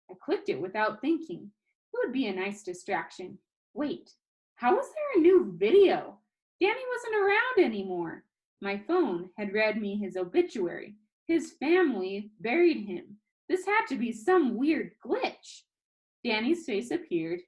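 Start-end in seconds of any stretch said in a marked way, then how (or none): 3.7-15.6 much higher and louder, alarmed; startled disbelief. Acted. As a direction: blurt it out in shocked confusion. Narrator shocked by new video.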